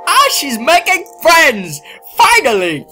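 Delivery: high, loud, teary joy; happy crying. Real, not acted. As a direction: cry out with relief. Joyful near-tearful at game.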